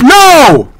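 long, high exasperated no; exasperated refusal. Real, not acted. Refusing a viewer's repeated demand.

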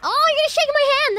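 high, loud, fast mock shock; hammed-up flirty outburst; playfully scandalized. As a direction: squeal it in pretend fluster. Mock-flustered reply to game character.

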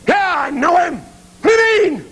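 high, strained cry; indignant shout; indignant protest. Acted. Judas protesting he knew him.

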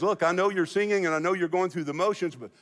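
building from reasoning to high-pitched, incredulous protest; exasperated divine rebuke climbing in pitch; God indignant. Acted. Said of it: "He just says, what do you think I am".

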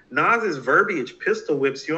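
put-on young fan repeating the review, mildly puzzled. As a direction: repeat the line back a bit slowly, baffled. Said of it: "And I'm like".

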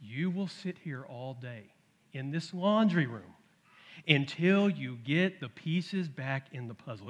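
slow, firm, deliberate warning; stern. Retold or imitated. Dad sternly telling his son he'll sit there all day. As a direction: lay down the law slowly. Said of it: "then I get stern".

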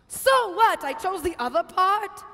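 indignant. Acted. Martha indignant.

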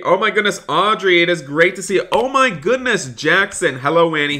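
high, excited greeting. Real, not acted. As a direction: greet viewers with a delighted high-pitched rush of surprise. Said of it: "I am so excited".

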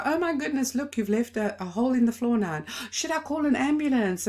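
hammed-up fake panic over a small fall; dismissive mock alarm. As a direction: brush off the child's tears with a joke. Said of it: "I just wanted to dismiss".

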